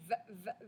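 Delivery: VA repeated in separate short bits; isolated first syllable. Shown as a demonstration. Teacher isolates the first syllable, "va-" repeated. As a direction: break off "va-, va-". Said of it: "le son ve".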